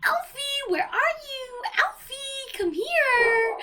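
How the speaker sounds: calling a butler like a pet dog; calling for Alfie. Retold or imitated. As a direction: run around yelling for Alfie like a lost dog. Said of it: "I was running around the place going".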